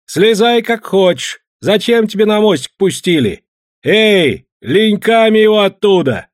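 loud, high mocking yell; jeering shout. A narrator's reading. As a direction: heckle him from below. Timokha jeering from the boat.

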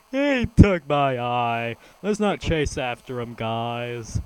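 slow, loud whining voice, lightly done; mock the cat's whimpering complaint; whiny cat voice. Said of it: "just starts whining about it".

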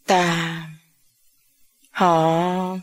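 low, halting, choked words; understated grief, broken off. A narrator's reading. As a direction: struggle to get each word out. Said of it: "Ông ngoại của Viễn nghẹn ngào".

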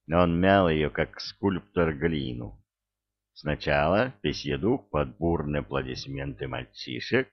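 usual speaking voice

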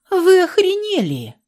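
very high, loud indignant cry; outraged shriek. A narrator's reading. Girl outraged by offer.

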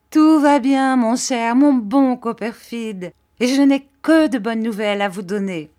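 loud, high joyful reply; bursting with happiness at the reunion; overjoyed. A narrator's reading.

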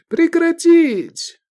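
high, loud, slow command; shouted order. Acted. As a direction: shout to stop the fight. Cicilius stops the fight.

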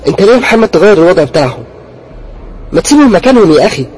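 loud, high, frightened complaint; scared, accusing. Acted. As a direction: blame him for moving the teddies. Frightened sister blames brother about teddies.

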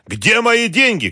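slow, very high shouted demand; angry shout. A narrator's reading. Boss demanding his stolen money, angry shout. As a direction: stretch it into a furious cry. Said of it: "кричал Георгий".

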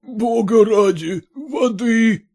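begging for water, near breaking; a high frantic cry for water; desperate plea for water. A narrator's reading. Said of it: "повторял он".

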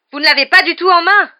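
high, full-voiced furious protest; yelling. A narrator's reading. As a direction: yell it at the minister. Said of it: "hurla Harry". (hurlement indigné)

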